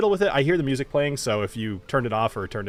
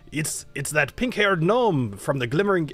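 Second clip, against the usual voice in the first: wrong voice; 3 semitones higher than usual. Acted. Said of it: "that's, uh, Alessio's voice".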